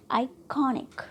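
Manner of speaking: आइकॉनिक with KON stressed; second-last syllable stressed. Shown as a demonstration. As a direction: lean on 'कॉ' in आइकॉनिक. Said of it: "syllable पर trust कर रहे हैं". (आइकॉनिक में 'कॉ' पर ज़ोर)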